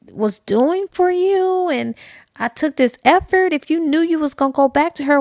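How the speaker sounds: high, hurt and indignant, rushing her words; furious outburst. Retold or imitated. Celeste yelling at Michael to get out, high furious outburst. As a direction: throw the man out, voice climbing with outrage.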